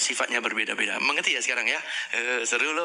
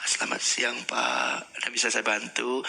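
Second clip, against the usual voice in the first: slow, calm service; 2 semitones lower than usual. Shown as a demonstration.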